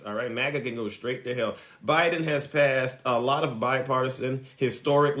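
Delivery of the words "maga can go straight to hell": dropped to a low, softer repeat; quietly restating that maga can go to hell; quieter repeat. Shown as a demonstration. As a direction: say it again under your breath, as if being nice. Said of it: "and I'm being nice".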